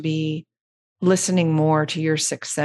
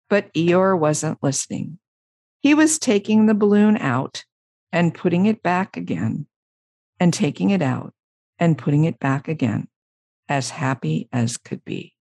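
lilting narration that winds down; story narration. A narrator's reading.

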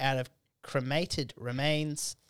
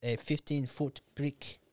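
slow, lightly imitated South African accent; South African woman; slower than usual. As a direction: mimic a South African date, taking it slowly. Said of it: "seeing a South African chick".

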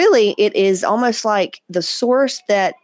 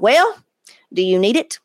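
sassy grandma; 3 semitones higher, 3 dB louder than usual. Retold or imitated. Grandmother at the counter asking if she needs jeans, sassy. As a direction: hand on hip, challenge playfully. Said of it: "put her hand on her hip".

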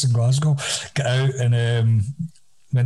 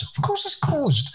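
ironic; 3 dB quieter, slower than usual. Real, not acted. Ironic remark, club closed.

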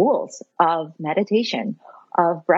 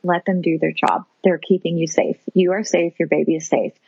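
lower, steady reassurance; reassuring self-talk; 3 semitones lower than usual. Retold or imitated. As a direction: calmly talk yourself down. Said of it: "did some self-talk".

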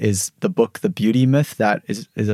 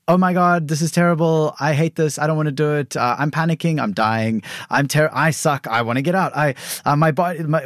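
mock panic; 5 semitones higher than usual. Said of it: "all the stories".

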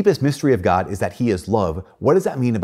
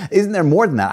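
higher, louder mock letdown; disappointed disbelief; 9 semitones higher, 5 dB louder than usual. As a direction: act out being let down and wanting more. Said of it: "I was just like".

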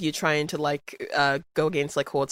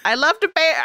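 put-on failed Chicago accent, higher pitched; 8 semitones higher than usual. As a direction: attempt a Chicago accent and give up. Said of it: "I can't do a Chicago accent".

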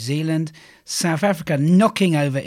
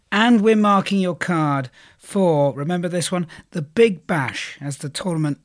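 slightly croaky, hoarse throat; 2 semitones higher than usual. Real, not acted. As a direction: speak through a croaky throat. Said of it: "Excuse my croaky voice".

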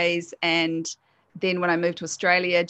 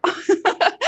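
real laugh; 12 semitones higher, 5 dB louder than usual. Real, not acted. Laughs at her own retold wish.

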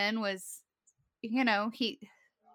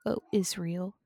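low, booming dramatic trailer narrator; movie trailer voice; 4 semitones lower than usual. Acted. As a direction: announce doom like an epic trailer. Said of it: "I wanted to try my movie trailer voice".

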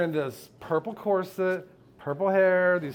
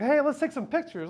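eager wife; 9 semitones higher than usual. Retold or imitated. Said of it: "she did, was like".

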